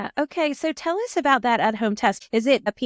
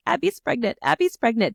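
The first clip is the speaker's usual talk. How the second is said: panic and joy; 3 semitones higher than usual. Retold or imitated. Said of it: "the emotion was panic and joy".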